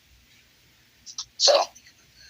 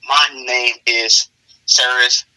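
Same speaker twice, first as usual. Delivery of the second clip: slow, measured British introduction; British accent; slower than usual. Acted. Newcomer introducing herself to classmates, slow British accent. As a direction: introduce yourself slowly with a light British accent. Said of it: "says that with a very, like, a British accent".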